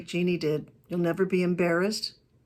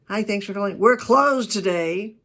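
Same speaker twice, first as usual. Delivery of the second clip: negative greeting; 5 dB louder than usual. Shown as a demonstration. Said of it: "That's a negative".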